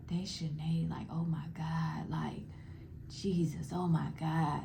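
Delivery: whispered gossip from outside the door; soft, shocked whisper, then barely voiced; hushed whisper. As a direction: whisper it so she won't hear. People outside whispering about her.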